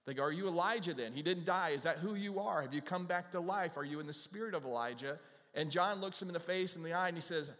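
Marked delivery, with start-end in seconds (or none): 0.2-5.2 raised, higher insistent questioning; questioning leaders. Acted. Leaders cross-examining John, higher and louder. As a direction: press him like suspicious leaders.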